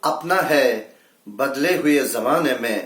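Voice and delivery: measured Urdu verse delivery; mushaira-style recital; poetry recitation. Acted. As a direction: recite it as a ghazal line. Recites the second ghazal.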